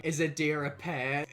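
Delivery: badly faked American accent, drawn-out question; attempted American accent. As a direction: imitate an American dad, not convincingly. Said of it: "not a good American accent".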